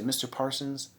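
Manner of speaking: quiet, low contempt; low, hushed telling-off. Pretend. To Mister Parsons, a low hushed fuck you. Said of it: "I would say".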